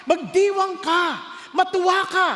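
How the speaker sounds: rally the crowd to celebrate; rousing call. Acted. Pastor urging rejoicing.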